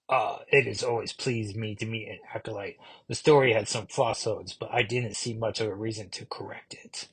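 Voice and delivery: a hint of a smug ancient vampire, ending whispered; villain voice. Villain Ilya greeting Ilyana as an acolyte, softly menacing, trailing into a whisper.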